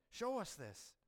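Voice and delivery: taunting demand. Retold or imitated. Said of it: "They wanted to see it".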